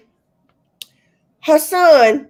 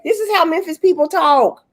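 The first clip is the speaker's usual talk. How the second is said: higher, lightly mocking quote; imitated TikTok girl; 5 semitones higher than usual. Host mocking the girl's claim about Memphis, higher mimicking voice. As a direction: quote her claim in a raised voice. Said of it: "she had nerve to say".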